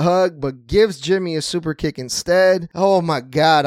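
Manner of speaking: breathless after fast excited talk; panting a little between words; out of breath. Real, not acted. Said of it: "I'm out of breath".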